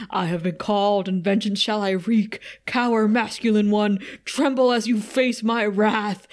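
lightly voiced, grandly menacing demon; deep demon voice. Veiny demon threatens Xander in his apartment, mock deep voice. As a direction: intone a mock-solemn vengeance threat. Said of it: "saying in a deep voice".

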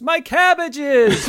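stretched anguished shout; cabbage merchant wail. Retold or imitated. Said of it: "all I can shout is".

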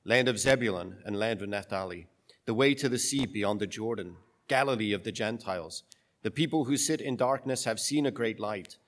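solemn, measured scripture reading; gospel reading. Acted.

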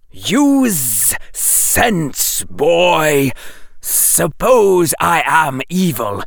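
high, slow serpent voice; a cold snake explains to the boy; lecturing snake. Acted.

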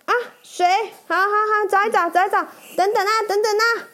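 scrambling boss mumbling as he searches; flustered boss. Acted. Boss hunts for water for the knight, high and flustered. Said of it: "老板想了一想".

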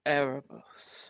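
slow, loud call to a god. Acted. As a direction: call the god's name slowly. Player calls the god of death.

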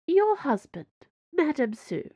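high, pointed Cardinal voice; Cardinal, ominous and deliberate; stern Cardinal. A narrator's reading. Cardinal character voice.

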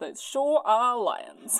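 slow, drawn-out mock discovery; deadpan realisation. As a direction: stretch out the dawning realisation. Voicing Rosa seeing lions in basket.

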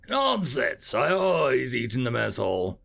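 firm, dismissive insistence; insisting. Acted. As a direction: brush the idea aside. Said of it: "the arson insisted".

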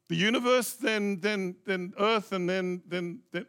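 acting out a fumbling answer, trailing off; puzzled guessing. Pastor replaying his muddled answer to her question, puzzled guessing. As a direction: stumble through a guess, repeating yourself. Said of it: "And I always started thinking".

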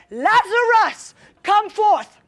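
slow, drawn-out commanding call; calling forth. Acted. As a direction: summon someone with authority. Jesus calls Lazarus from tomb.

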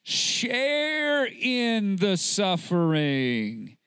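very slow, every word drawn out; slow solemn quote. Shown as a demonstration. Preacher repeating Paul's charge to Timothy, slowly. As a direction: let the verse sink in, word by word. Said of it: "This is what Paul told Timothy".

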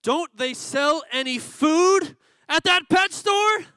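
very high, loud, slow squawking parrot. Acted. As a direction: squawk it out like a cranky bird. The dying parrot's last words.

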